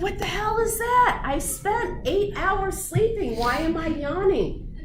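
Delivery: imitating a just-woken person, baffled; mock bafflement. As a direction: play a sleeper confused by their own yawns. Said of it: "You're like".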